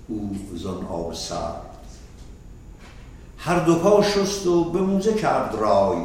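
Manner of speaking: fast, rhythmic poem chant; Persian verse recitation. Acted. Teacher reading Rumi's verses to the students, fast rhythmic recitation. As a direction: rattle through the couplets in measured rhythm.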